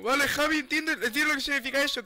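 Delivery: high, loud, hurried-sounding appeal; urgent placating. Real, not acted. Player trying to calm Javi, loud urgent placating. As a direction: plead loudly to be understood.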